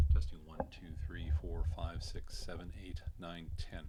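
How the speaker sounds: dull, distant sound from behind mic; off-axis mic. Shown as a demonstration. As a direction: speak into the back of the mic. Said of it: "This is a hundred and eighty degrees off pattern".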